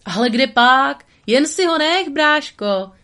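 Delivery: loud, high eager brush-off; hasty protest. Acted. Tramp hurries to tell the beaver to keep it. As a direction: wave it away quickly, nervous to leave. Tramp hastily dismissing the price.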